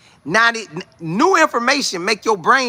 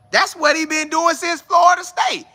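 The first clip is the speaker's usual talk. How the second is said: much higher, hyped-up shout; excited shout; 11 semitones higher than usual. Real, not acted. To the chat, praising Coach Prime, higher excited shout. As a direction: shout it out, fired up about Prime.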